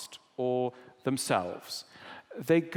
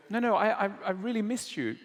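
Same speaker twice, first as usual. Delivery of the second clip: pressing the point, higher and faster; insistent wife; 7 semitones higher, faster than usual. Retold or imitated. Wife repeats to distant husband, a touch more insistent. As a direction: say it again so he finally hears you. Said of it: "And the wife go, will go".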